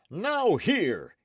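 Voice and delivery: loud, high outburst of rage; enraged cry. A narrator's reading. Knight hearing of the massacre, enraged cry. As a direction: burst out with a furious command. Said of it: "he cried".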